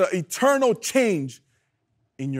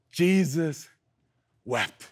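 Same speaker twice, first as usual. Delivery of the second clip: solemn; 5 semitones lower, 5 dB quieter, slower than usual. Real, not acted. Reading the short verse solemnly.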